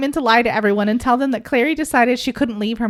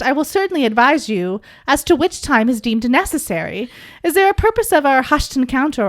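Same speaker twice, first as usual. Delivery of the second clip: a touch of a stately gentleman, a bit louder; lightly hammed archaic gentleman; old-timey gentleman; 3 dB louder than usual. Podcaster voicing Simon in old dude style, mock formal. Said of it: "we're gonna do this in old dude".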